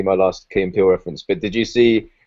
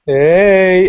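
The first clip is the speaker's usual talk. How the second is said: loud, higher mock-friendly hey; cheery hello; 10 semitones higher, 8 dB louder than usual. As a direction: greet him like an overeager old pal. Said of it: "He's like".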